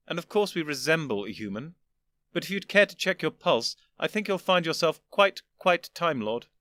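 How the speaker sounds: put-on an old gentleman patiently explaining; lofty old Doctor. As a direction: superior elder explaining to his younger self.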